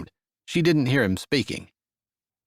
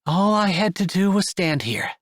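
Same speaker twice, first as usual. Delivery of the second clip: smiling voice; 7 semitones higher than usual. Acted. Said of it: "with a smile in her voice".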